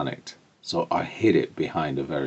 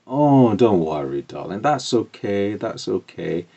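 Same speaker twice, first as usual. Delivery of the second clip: reassuring, with a swooping "oh" that eases down; soothing mum; 4 semitones higher, 4 dB louder than usual. Retold or imitated. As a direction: comfort a crying child, imitating mum. Mum soothing her crying child.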